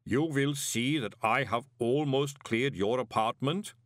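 slow, even clay giant; matter-of-fact and unhurried; lightly voiced placid golem; calm golem. A narrator's reading. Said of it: "said Pump calmly".

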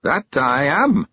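put-on high old countryman voice; old man sending the girl on an errand, high and eager; Mister Weevil. A narrator's reading. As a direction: lift into a high, chatty old man's voice. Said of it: "said Mister Weevil".

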